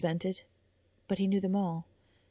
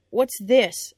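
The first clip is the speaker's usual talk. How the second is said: sharp question; 4 semitones higher, 9 dB louder than usual. Acted. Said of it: "asked Sir Gresham".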